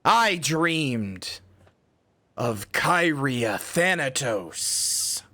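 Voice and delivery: high cute streamer voice, dramatic; dreamy anime speech, slow and grand. Acted. Dramatic mock monologue about dreams.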